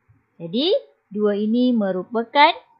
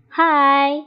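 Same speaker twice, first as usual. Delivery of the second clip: calling hai; 4 semitones higher, 4 dB louder than usual. Shown as a demonstration. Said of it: "menarik perhatian atau menegur seseorang".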